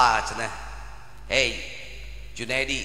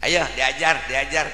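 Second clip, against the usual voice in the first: usual speaking voice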